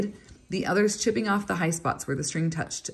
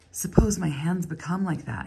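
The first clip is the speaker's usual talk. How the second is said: whispered thought. A narrator's reading. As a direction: breathe the worried thought. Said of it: "he was thinking".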